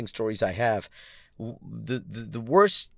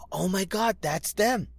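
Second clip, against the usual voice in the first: sudden realization; 8 semitones higher than usual. Retold or imitated. Recognizing the cricketers too late.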